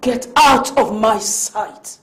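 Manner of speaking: angry dismissal. Acted. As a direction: order her out with menace. Mistress throws out the servant.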